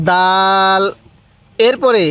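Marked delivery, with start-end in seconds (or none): 0.1-0.8 hard, firm d opening দাল; firm pronunciation. Shown as a demonstration. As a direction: press the d of দাল, vowel held long. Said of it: "এই দালটাও আমরা শক্তভাবে উচ্চারণ করব".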